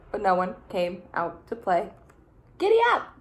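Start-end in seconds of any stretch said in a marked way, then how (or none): 2.6-3.1 high, louder gleeful cry; giddy rider. Acted. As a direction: cheer like riding a horse. Snail rides papa's shell.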